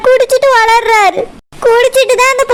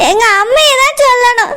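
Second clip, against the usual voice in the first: weeping lament. Acted. Wife alone, crying after husband leaves.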